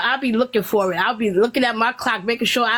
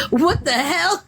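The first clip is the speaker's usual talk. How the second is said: laughing disbelief; 5 semitones higher, slower than usual. Retold or imitated. Laughing retold reaction.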